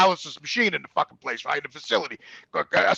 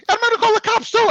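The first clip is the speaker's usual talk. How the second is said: nurse voice; 13 semitones higher, 3 dB louder than usual. Retold or imitated.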